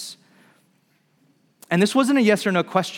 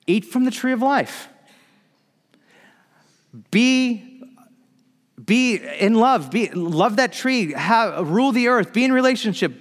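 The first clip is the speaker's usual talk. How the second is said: a lightly voiced loving God urging trust; God's invitation; 6 semitones higher than usual. God inviting Adam and Eve to the tree of life, higher and earnest.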